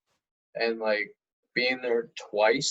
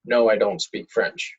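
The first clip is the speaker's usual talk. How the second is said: mock tourist reply; 7 dB louder than usual. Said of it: "you would say in French".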